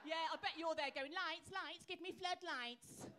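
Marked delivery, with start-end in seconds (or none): 1.1-3.1 louder, higher calling out; mock eager demand. Comedian mimicking audience member wanting sex lit up, mock eager shout. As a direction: imitate someone calling urgently, drawn out at the end.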